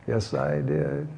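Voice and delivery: low, slow and hushed; whispered. Acted. Child not to be outdone, whispering to mother. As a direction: breathe it slowly like a secret in the ear. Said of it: "whispered in her ear".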